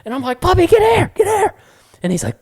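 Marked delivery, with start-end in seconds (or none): 0.4-1.5 high, urgent mock shout; retold yelling. Owner calling puppy out of the lake, urgent yelling. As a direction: call the dog over at the top of the range. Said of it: "like, yelling at Puppy".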